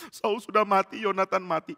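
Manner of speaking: hammed-up mock lament; pretend weeping. Follower faking sorrow over two deaths, mock weeping. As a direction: wail it with put-on grief. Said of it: "kita pura-pura mau nangis".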